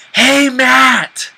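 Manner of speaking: high, loud call across a mall. Pretend. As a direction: shout his name to get his attention. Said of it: "from your".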